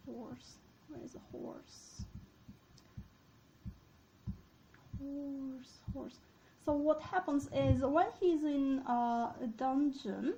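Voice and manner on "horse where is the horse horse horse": very soft, absent-minded search; muttering to self. Real, not acted. Lecturer searching the text for horse, muttering to self. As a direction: murmur it under the breath while hunting.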